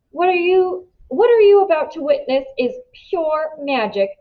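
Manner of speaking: lightly exaggerated Indian accent, mocking a magician's patter; bully parodying an Indian accent, a touch hammed. A narrator's reading. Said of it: "he says, exaggerating my accent".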